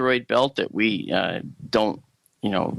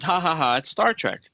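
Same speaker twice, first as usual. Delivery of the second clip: higher, spelled-out fake ha-ha-ha; mock scoffing laugh; 4 semitones higher than usual. Guest imitating how scientists once laughed it off, mock derision. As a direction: act out a dismissive laugh. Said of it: "we would have laughed at it and said".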